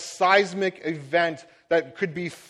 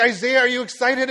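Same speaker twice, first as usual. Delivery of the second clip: excited prompt; 6 semitones higher, 5 dB louder than usual. Retold or imitated. Parent prompting excited child.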